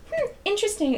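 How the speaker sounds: high-pitched, lightly mimicked musing; student impression. Imitating a girl studying the candy picture, high and musing. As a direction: lift it up into a pondering kid voice. Voicing the girl's reaction.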